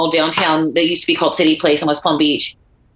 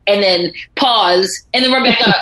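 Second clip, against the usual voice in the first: ordinary delivery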